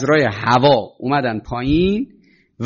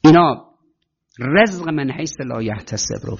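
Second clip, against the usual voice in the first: ordinary talk, nothing marked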